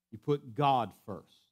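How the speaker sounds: 「God」を強く; stress on God. Shown as a demonstration. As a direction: lean on God. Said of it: "Let me say it with another emphasis".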